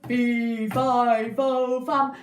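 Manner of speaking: the giant wakes and finds his harp gone, roaring; raging giant. Acted. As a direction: storm about demanding your treasures. Giant chasing Jack.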